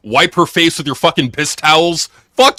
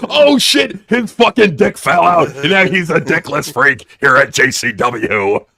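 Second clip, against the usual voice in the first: mock commentator; slower than usual. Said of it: "Violent J on commentary".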